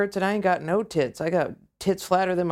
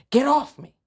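mock shriek; 7 semitones higher, 4 dB louder than usual. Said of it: "she went".

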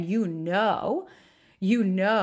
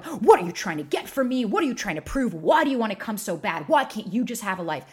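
retold exploding; 2 semitones higher, 4 dB louder than usual. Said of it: "he started going".

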